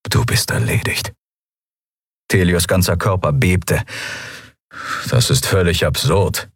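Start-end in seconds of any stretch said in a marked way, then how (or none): 0.1-1.1 whispered, cynical aside; cynical inner voice. Acted. Inner voice warning Telios, whispered and cynical. 5.1-6.5 calm. Acted. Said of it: "wiederum so ruhig".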